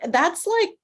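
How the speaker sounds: sarcastic disbelief at a tiny bag; exasperated. Retold or imitated. Mocking the tiny bag policy.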